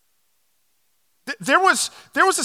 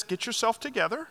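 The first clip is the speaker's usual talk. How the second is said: calm; 3 semitones lower, 5 dB quieter than usual. Retold or imitated. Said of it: "in a real calm voice says".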